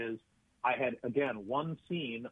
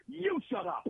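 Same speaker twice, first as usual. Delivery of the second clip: a higher mock yell, shut it down; snapping shut up, raised high; retold yell; 10 semitones higher, slower than usual. Actor yelling at a fellow actor off camera, mock yell. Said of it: "He was just yelling".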